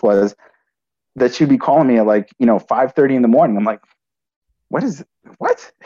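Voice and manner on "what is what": high startled what, half-mumbled; reliving the jolt of confusion; retold disbelief. Son hearing stepfather's news on the phone, stunned high what. Waking to stepfather's early call.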